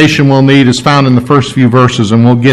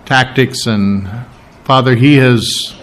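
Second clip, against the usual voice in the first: slow, measured prayer with long pauses; earnest, deliberate pastor's prayer; spoken prayer. Real, not acted. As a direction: pray aloud unhurriedly, searching for each phrase. Leads the congregation in prayer.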